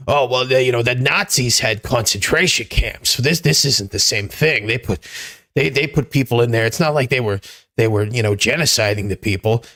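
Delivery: lightly put-on Jewish shtick voice, mocking the critics; a hint of a whiny Jewish uncle mocking the pushback. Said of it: "that voice you just did was very Gilbert Gottfried".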